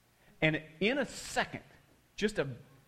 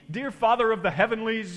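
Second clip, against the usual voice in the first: high, loud imitated prayer; praying at top volume; 6 semitones higher, 6 dB louder than usual. Pastor praying in halting English, imitated top-of-lungs. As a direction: imitate a pastor calling loudly to heaven. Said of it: "at the top of his lungs".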